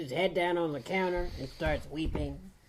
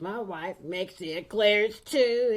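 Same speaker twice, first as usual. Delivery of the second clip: slow, high, louder blubbering; crying harder; 5 semitones higher, 5 dB louder, slower than usual. Acted. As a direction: drag the words out through mock sobs. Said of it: "starts crying even harder".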